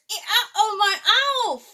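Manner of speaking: high loud ows with a laugh; hammed-up pain cries. A narrator's reading. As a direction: moan through giggles. T. rex in pain.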